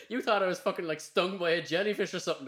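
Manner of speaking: words pushed out through real laughter; laughing. Real, not acted. Laughing recalling the story.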